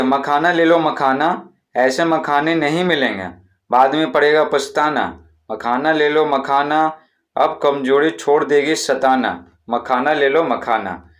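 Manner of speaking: slow sing-song rhyming hawker cry; makhana seller's call. Shown as a demonstration. Teacher shows how to call out selling makhana, slow vendor chant. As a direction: hawk your makhana to the whole lane. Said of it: "इस प्रकार से आवाज़ लगा सकते हैं".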